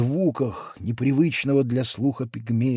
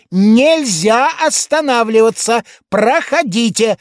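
policeman's shout; 8 semitones higher, 6 dB louder than usual. A narrator's reading. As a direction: lay down the rule like a small stern constable. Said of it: "повторил он".

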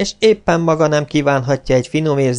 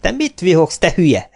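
scolding. Acted. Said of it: "Kerényi Terka közöttük áll".

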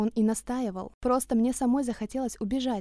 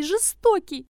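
repeated shriek; 8 semitones higher, 7 dB louder, much slower than usual. A narrator's reading. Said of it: "завизжала".

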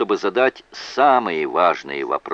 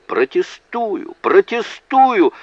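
long, high-pitched cry, louder on the repeat; roared objection; 13 semitones higher, 5 dB louder, slower than usual. A narrator's reading. Prosecutor objecting on tiptoe, drawn-out roar. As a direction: stretch each objection out and build. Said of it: "Бакли заревел".

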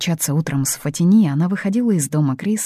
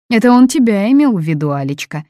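louder, higher, cutting in over the son; interrupting; 5 semitones higher, 7 dB louder than usual. A narrator's reading. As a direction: cut him off with a barb. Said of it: "перебивая сына".

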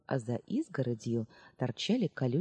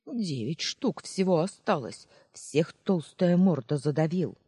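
grumbling; 2 semitones higher, 4 dB louder than usual. Acted. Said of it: "продолжала ворчать бабушка".

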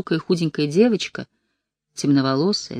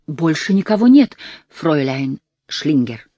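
eager, slow servile call; fawning girls calling; 5 dB louder than usual. Acted. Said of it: "подобострастно крикнули девочки".

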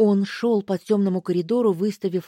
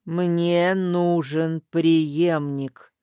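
put-on slow rasping old hag voice; hoarse old crone; much slower than usual. Старуха хрипит Лестеру в ответ, медленно и сипло. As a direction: croak it out like a dying crone. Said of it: "старуха продолжает хрипеть".

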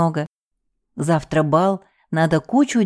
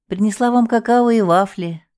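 sing-song kind; 4 semitones higher than usual. A narrator's reading. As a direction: coo it like a fond cook. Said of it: "ласково запела она".

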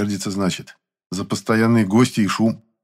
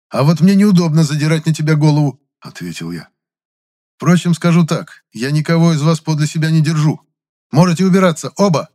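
high, louder angry rebuke; angry scolding; 6 semitones higher, 5 dB louder than usual. A narrator's reading. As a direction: tell them off firmly. Narrator scolds ghosts angrily. (гневный выговор)

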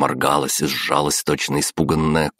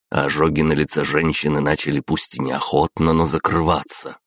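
ordinary delivery, nothing marked

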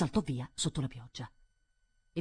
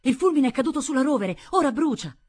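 high, loud cry raising the alarm; urgent, high-pitched yell; alarmed shout; 11 semitones higher, 11 dB louder than usual. Acted. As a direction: shout the news to the whole household. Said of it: "Tobia gridò".

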